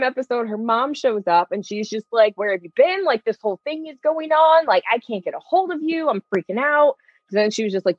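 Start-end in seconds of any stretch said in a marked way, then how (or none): 2.4-7.0 imitated frantic mom. Voices frantic mom showing up.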